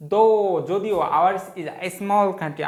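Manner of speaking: very slow word-by-word reading; slow dictation. Shown as a demonstration. Teacher reading the passage line to students, very slow. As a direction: stretch each word so students can write.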